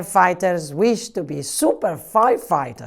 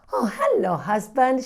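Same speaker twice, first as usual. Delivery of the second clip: breathy whispered greeting, higher; whispered hello; 6 semitones higher than usual. Acted. New wife greeting her husband in a whisper.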